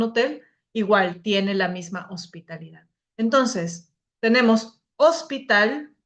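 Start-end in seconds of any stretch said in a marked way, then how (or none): 5.0-5.9 "hospital" with the voice's force on the final "tal"; "hospital", weight landing on "tal"; stress on last syllable. Shown as a demonstration. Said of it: "la fuerza de, de voz en, en la última".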